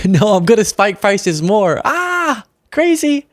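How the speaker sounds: a light parody of the president; mock Trump. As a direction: lampoon him as gleefully careless. Mocking Trump's admission on prices.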